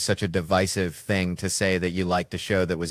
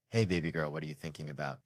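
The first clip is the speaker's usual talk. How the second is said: soft, low loving dad murmur; tender fatherly; 4 semitones lower, 10 dB quieter than usual. Acted. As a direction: speak softly to your little girl. Father's tender dream moment.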